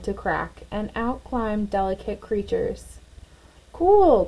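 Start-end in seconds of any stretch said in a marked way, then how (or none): 3.7-4.3 higher and louder, thrilled; excited cry. A narrator's reading. Clara sees the new butterflies, thrilled and loud. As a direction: burst out with delight. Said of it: "cried Clara".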